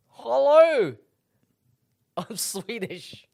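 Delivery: a hammed-up put-on African accent, high and bright on the hello; mock African accent. Friend shows his offensive impression on the podcast, in a hammed-up African accent. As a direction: lay on a cartoonish African accent. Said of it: "my famously offensive impression of an African".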